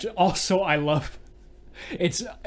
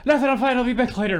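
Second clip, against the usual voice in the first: laughing quote; 10 semitones higher, 5 dB louder, faster than usual. Retold or imitated. Barry brushing off coworkers.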